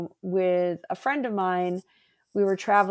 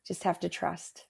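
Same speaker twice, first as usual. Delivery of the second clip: quiet affirmation; 2 semitones lower, 9 dB quieter than usual. Real, not acted. Soft closing affirmation.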